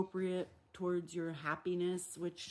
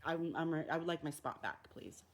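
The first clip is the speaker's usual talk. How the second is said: polite request. Pretend. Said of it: "stop and be like".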